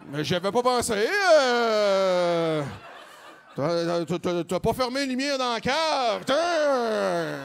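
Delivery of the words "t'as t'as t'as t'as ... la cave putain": mock scolding. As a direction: snap at him about the basement lights. Girlfriend scolding about lights.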